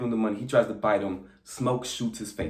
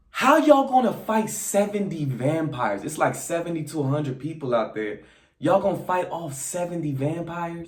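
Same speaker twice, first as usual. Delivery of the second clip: incredulous; 5 semitones higher than usual. Real, not acted. Incredulous at the odds.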